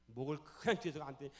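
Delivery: ordinary talk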